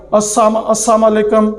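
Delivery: "السلام" clipped to assam, then "السلام علیکم" slurred; wrong pronunciation. Shown as a demonstration. Teacher imitating a careless "السلام علیکم", clipped. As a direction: stumble on "السلام" and clip it. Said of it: "یہ بھی غلط ہے".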